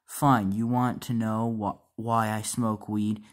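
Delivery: mock-angry, slow and loud. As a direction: drag it out loud and resentful. Son angrily confronts dad.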